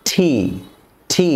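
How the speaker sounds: ঠি with a puff on the t; ঠি, not টি; aspirated t. Shown as a demonstration. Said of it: "এর সঠিক উচ্চারণটি হচ্ছে". (ঠি, হাওয়া দিয়ে)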